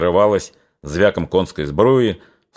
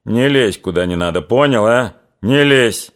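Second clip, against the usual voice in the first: stern. Acted. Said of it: "строго повторил Чубатый".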